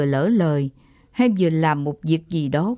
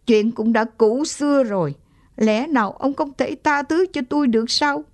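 choked voice; 5 semitones higher than usual. Acted. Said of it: "Giọng bà lão nghẹn lại".

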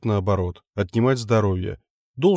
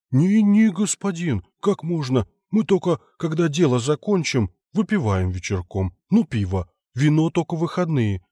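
flustered peasant; 5 semitones higher than usual. Acted. Foreman protests, flustered.

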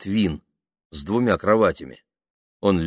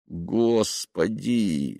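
long, very slow drawn-out moan; exasperated groan; 2 semitones higher, much slower than usual. Acted. Man hears her declaration of love, exasperated groan. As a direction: groan it out in despair. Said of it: "застонал он".

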